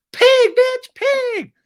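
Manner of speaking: squeaky mini-me parroting insults; little Lala squeak. Retold or imitated. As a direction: squeak it like a tiny cartoon version of her. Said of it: "And then little Lala goes".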